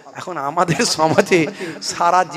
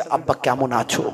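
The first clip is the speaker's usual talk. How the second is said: slow meek greeting; 7 semitones lower, 4 dB quieter, slower than usual. Retold or imitated. Son greets father-in-law, as rehearsed.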